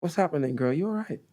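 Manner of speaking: put-on British accent, lifting at the end; British accent attempt. Shown as a demonstration. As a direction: copy a casual British greeting. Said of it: "say them in your best British accent".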